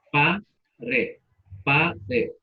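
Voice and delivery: Pa-re, pa-re dicho sílaba por sílaba; syllables split. Shown as a demonstration. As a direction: separa pa y re despacio. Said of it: "con la fuerza en la última sílaba". (separando sílabas: pa-re)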